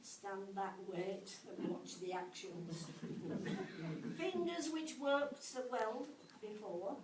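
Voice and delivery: measured rhyming verse with pauses at line ends; comic poem recital. Acted. Teacher recites an ode on a maths lesson, comic poem recital. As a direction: recite it as a light, rhythmic ode.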